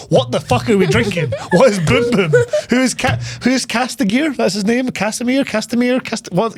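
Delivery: high-pitched mock incredulity; baffled outburst. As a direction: fire off bewildered questions, voice climbing. Acts out baffled reaction to dialogue.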